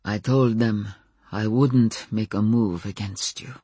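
weary; utterly weary. Acted. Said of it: "Stefan sounded utterly weary".

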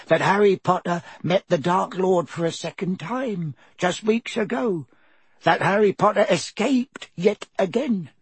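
high squeaky elf voice, humble and anxious; a trembling servant elf pleading; house elf Dobby. A narrator's reading. House elf Dobby explains his lot to Harry, high squeaky elf voice.

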